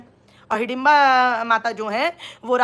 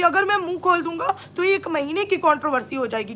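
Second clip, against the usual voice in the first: mock imitation; 5 semitones higher than usual. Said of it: "अपनी live में indirect way में सबको बोल रहा था".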